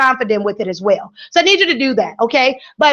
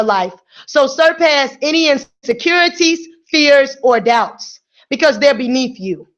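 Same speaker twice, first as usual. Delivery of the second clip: slower reread; slower than usual. Shown as a demonstration. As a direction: read it again, more deliberately. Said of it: "Let's take that back again".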